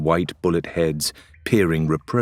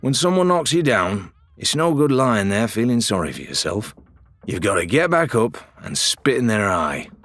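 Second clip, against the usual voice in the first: put-on old dad; 3 semitones higher than usual. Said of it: "like my old dad used to say".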